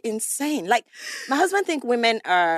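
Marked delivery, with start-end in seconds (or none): 1.3-2.6 higher, louder, laughing through it. Real, not acted. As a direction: let the laugh burst through the words. Laughing while describing her husband.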